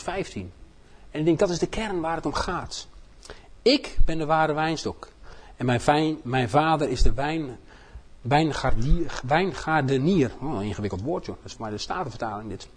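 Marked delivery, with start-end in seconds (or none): 3.6-12.7 slow, solemn Bible reading; scripture reading. Acted. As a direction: read each verse deliberately. Reads John 15 aloud.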